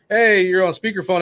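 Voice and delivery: warning on speaker. Retold or imitated. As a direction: spell it out slowly so she hears. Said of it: "he's like".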